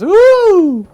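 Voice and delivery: high, slow, drawn-out cartoon pig voice; squealing "Woo!" then a slow, high pig line; first little pig. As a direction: stretch it out like a giddy little pig. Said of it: "the second pig was".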